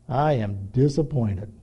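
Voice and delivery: quiet parental letdown, weighed out slowly; disappointed parent. Acted. Parent shaking head at misbehaving kids, mildly disappointed.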